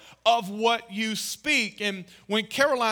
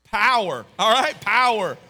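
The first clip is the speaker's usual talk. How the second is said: emphatic call-out; 7 dB louder than usual. Real, not acted. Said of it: "preacher drilling the word".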